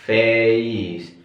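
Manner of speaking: "face" slowly with a clear /eɪ/ glide, fays; "face" said slowly with a full ay diphthong; right face. Shown as a demonstration. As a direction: stretch the vowel in "face" into eh-ee. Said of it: "tapi face".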